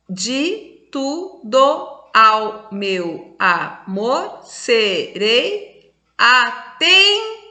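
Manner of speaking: reads the line very slowly, stretching each syllable; slow, drawn-out recital of a verse; slow poem reading. Shown as a demonstration. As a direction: spell out "de tudo ao meu amor" syllable by syllable for the class. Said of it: "essa aqui não conta".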